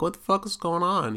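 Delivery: put-on a kid searching the fridge, totally lost; baffled outburst. Can't find the milk jug.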